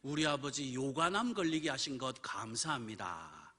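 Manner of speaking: earnest recited prayer; prayer of thanks. Retold or imitated. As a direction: pray it out deliberately, stretching the final thanks. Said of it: "감사 기도를 드렸습니다".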